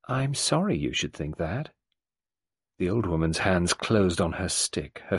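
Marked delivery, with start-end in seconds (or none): 0.1-1.7 even reply. Acted. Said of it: "replied evenly".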